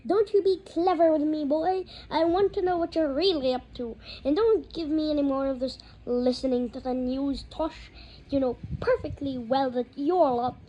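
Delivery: angry uncle. A narrator's reading. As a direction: bellow at the boy in rage. Vernon berating Harry.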